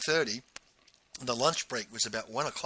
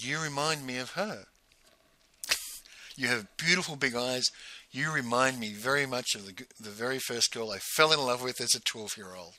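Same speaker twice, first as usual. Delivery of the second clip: soft, understated retold compliment; tender sincerity; 2 semitones lower, 4 dB quieter than usual. Man telling forum leader of his first love, tender. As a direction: recall it gently, voice dropped.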